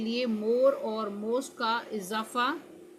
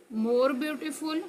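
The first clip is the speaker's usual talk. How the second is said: slow drill; 3 semitones higher, much slower than usual. Shown as a demonstration. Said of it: "slow drill of comparative forms".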